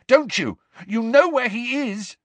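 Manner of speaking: high-pitched, loud insistence; accusing shout. Acted. Harry shouts that the elf knows, accusingly. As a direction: keep shouting, pressing the accusation. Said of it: "shouted Harry".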